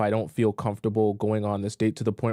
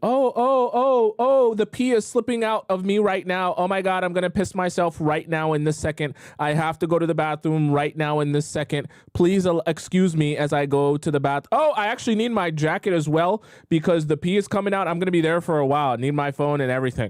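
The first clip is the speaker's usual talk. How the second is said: put-on urgent tone, pitched up; 7 semitones higher than usual. Advising listeners how to leave a bad date, acting out a pretend bathroom emergency. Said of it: "I want you to literally just".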